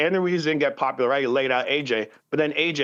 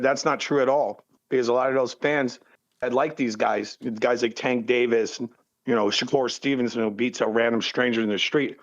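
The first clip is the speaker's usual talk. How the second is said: mouth full; 2 semitones lower than usual. Real, not acted. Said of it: "are you feeling food while talking".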